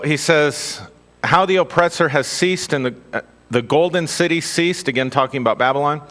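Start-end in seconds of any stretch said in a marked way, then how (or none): 1.2-4.9 measured scripture reading voice. Acted. Preacher reading Isaiah to the congregation, measured reading. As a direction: read it out as holy text, steady.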